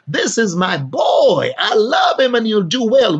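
booming fatherly pride; proud proclamation. Acted. God the Father proclaiming his son.

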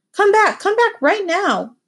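high, slow and urgent over the phone; an upset guest summoning the clerk back. Acted. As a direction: demand it with urgency. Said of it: "From the urgency in his voice".

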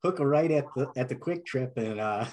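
high, hammed-up Upper Midwest directions voice; mock Minnesota accent breaking into laughter. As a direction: play a chatty Minnesota local giving directions. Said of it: "thanks for humoring me on that".

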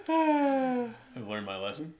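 words squeezed out through laughter; laughing too hard to talk straight. Real, not acted. Laughing at his own slip while talking to friends. Laughing after being caught out.

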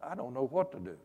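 low, soft retold grumble; quietly lament, as if retelling a private prayer; mild complaint to God. Preacher retells praying to God while driving home, mildly complaining. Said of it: "kinda complaining to God".

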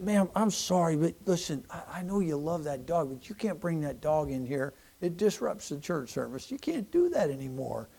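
soft, gentle and apologetic; gentle apology. Retold or imitated. Pastor softly telling the dog owner she can't bring it. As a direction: let her down softly, sorry but firm.

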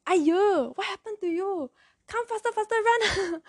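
high-pitched imitation of a panicking grandfather; alarmed grandfather. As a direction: urge them to hurry, acted out high. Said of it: "my grandfather was like".

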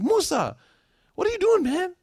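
high-pitched, exasperated mock yell; imitated parental yell. Father to son who decked a girl, exasperated yell. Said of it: "so I yelled at him".

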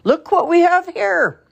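loud, slow, high-pitched big-voiced man; booming friendly man. A narrator's reading. Village man spots the lost girl, booming and friendly. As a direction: boom it out to greet the child. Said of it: "said in a booming voice".

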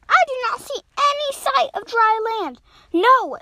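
high, loud storybook dismay; dismayed call. Acted. Swimmers find no dry land, high loud dismay.

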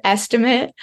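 estimate set apart and emphasized; stress on estimate. Real, not acted. Doctor underlining a key word for listeners, stress on estimate. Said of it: "I like to emphasize that word".

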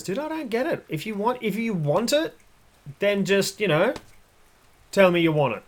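a dog begging for clear rules; confused dog. Acted.

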